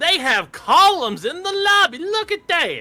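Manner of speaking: very high, loud, over-the-top dopey put-on southern accent. Recounting pointing things out all weekend, in that dumbass southern voice. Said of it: "in that dumbass southern voice".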